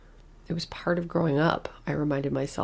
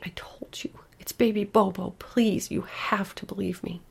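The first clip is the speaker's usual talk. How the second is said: hushed, urgent whisper with a lifted please; frightened child's whisper; 4 semitones higher than usual. Acted. Little girl begging her mother to believe her, whispered. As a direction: whisper it like a secret that scares you. Scared child insists on Bobo.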